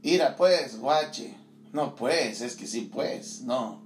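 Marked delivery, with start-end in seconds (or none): 0.0-1.3 light imitation of a Tierra Caliente drawl; mock Michoacán country accent; Carácuaro rural accent. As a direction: say it like a ranchero from Carácuaro. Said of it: "que hablan".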